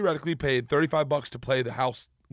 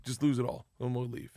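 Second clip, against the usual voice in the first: quiet retold order; 2 semitones lower, 5 dB quieter than usual. Igor's quiet instruction, retold.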